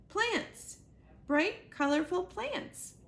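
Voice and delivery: amazed exclaim, pitch leaping up, slow; delighted discovery of green in the snow; excited. A narrator's reading. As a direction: gasp it out in wonder. Goose sees plants in winter.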